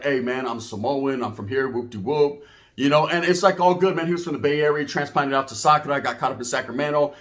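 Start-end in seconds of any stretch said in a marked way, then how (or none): 0.0-2.4 big Samoan cellmate. Retold or imitated. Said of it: "He's like".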